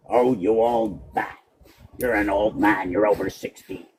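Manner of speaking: lightly voiced name-caller, dragging the words; mock accuser. Voices someone insulting his age.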